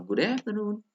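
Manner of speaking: "good afternoon" climbing high on afternoon; drilled "good afternoon", high tune; intonation drill. Shown as a demonstration. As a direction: lift "afternoon" for learners to copy. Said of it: "tidak, tidak sama ya intonasinya".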